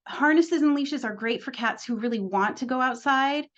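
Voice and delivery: "want" leaned on, the word pushed out above the rest; stress on want. Shown as a demonstration. Trainer to cat owners, pressing "want" in "really want to go outside". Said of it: "I'm gonna emphasize the word want".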